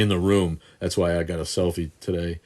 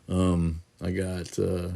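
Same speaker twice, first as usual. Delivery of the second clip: ordinary delivery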